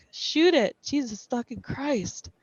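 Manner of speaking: high, loud panicked yell; panicked shout. A narrator's reading. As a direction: scream it in panic.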